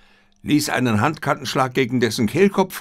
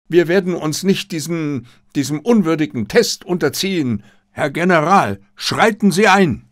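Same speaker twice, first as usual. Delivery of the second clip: angry demand; 6 semitones higher, 4 dB louder than usual. Acted. Katayama demands the general intervene.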